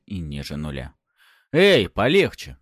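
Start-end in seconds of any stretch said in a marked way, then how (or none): 1.5-2.6 громкий выкрик, выше и медленно; окликнуть бьющего, протестуя; воскликнуть. A narrator's reading. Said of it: "воскликнул я". (герой возмущённо вскрикивает на ударившего бандита)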